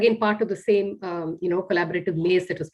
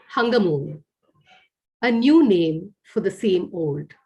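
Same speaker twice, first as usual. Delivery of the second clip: poem reading. Acted. Reads her poem aloud.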